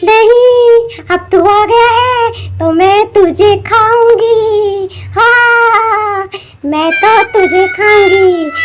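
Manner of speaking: slow, drawn-out menacing witch. Acted. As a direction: savour the threat like a hungry witch. Witch voice threatening.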